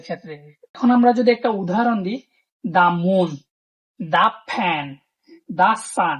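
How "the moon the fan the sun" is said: "the" said "thuh" before each consonant noun; short "thuh" before moon, fan, sun. Shown as a demonstration. Teacher showing "the" before consonant sounds. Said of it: "এগুলো হচ্ছে consonant sound".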